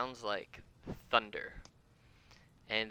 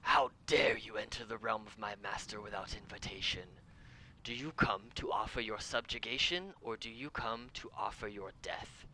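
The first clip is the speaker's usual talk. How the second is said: booming voice. Acted. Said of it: "You hear a booming voice that says".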